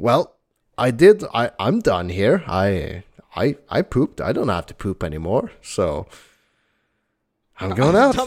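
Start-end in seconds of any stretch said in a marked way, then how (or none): none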